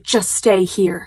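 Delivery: drawn-out retold snap; slow, mildly aggressive command. Lucy to her best friend at the mall, snapping aggressively. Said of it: "snaps really aggressively".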